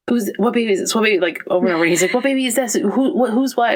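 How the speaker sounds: high, rushed mock panic; husband asking frantically which baby this is, high and rushed; frantic husband. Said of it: "he was so frantic".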